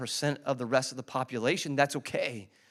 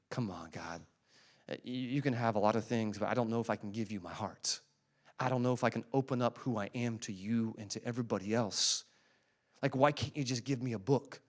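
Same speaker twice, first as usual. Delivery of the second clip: softer, grumbling plea to God; reluctant five; 5 semitones lower, 7 dB quieter than usual. Retold or imitated. The fives plead with God, softly, mock reluctant. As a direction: lightly voice a reluctant believer bargaining. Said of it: "And the fives are thinking".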